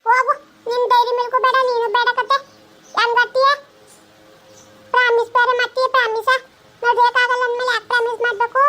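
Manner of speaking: a daughter sulking at her father over a promise; sulking child's scolding. Acted. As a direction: pout and scold him for breaking the promise.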